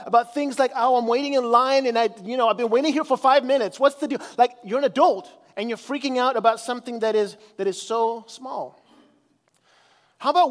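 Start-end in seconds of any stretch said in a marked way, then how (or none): 0.8-4.2 mock complaining. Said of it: "complaining about".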